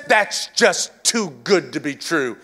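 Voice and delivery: imitating religion's doubt about grace; mock doubting voice. Preacher voicing religion's doubt about grace, mild scoff. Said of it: "religion says".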